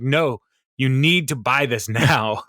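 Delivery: slow, insistent mock hard sell; forceful insistence. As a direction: imitate a pushy salesman, drawing the words out. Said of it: "spreading the word forcefully".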